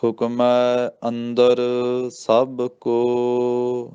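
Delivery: ਹੁਕਮੈ with a full "ai" and ਕੋ drawn long; very slow chant stretching ਕੋ; ਕੋ ਲੰਮਾ ਕਰਕੇ; careful recitation. Shown as a demonstration. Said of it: "ਮੰਮੇ ਨੂੰ ਜ਼ਲਾਵਾਂ ਨਾਲ ਬੋਲਣਾ".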